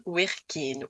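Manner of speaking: "werken" mispronounced, wrong vowel in the final E; wrong pronunciation. Shown as a demonstration. Teacher showing what not to say, wrong pronunciation. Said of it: "il ne fallait pas dire".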